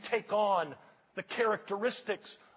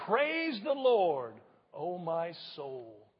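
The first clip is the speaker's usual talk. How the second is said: slow, drawn out so the church can follow; slow praise line said with the congregation; slow call and response; 4 semitones lower, slower than usual. Shown as a demonstration. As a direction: lead them through it slowly. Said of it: "Would you say that with me?".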